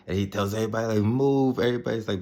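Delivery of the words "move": retold command, high and loud; mock shouted order, pitched well up; barked order. Son orders everybody aside before firing the cannons, retold shouted command.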